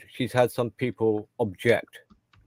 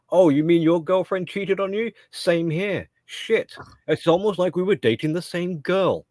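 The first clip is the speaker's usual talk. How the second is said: mocking voice; 6 semitones higher than usual. Mocking a man's reaction.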